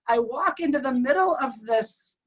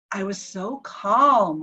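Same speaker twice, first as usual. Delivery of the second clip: slow, lower and settled; retold calm; 4 semitones lower, slower than usual. Patient telling wife about floating above his body, calm. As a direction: imitate someone serenely calm. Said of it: "exactly what Kelly had texted me, that there was calm".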